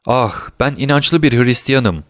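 slow, restrained exclamation; mild earnest cry. Acted. Prisoner fearing he'll be abandoned, slow earnest cry. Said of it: "diye haykırdı".

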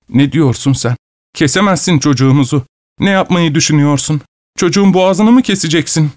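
high-pitched, rising alarm; mother protesting in alarm, pitch climbing; horrified protest. A narrator's reading. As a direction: build from disbelief to a high outcry. Horrified mother protests in narrated dialogue.

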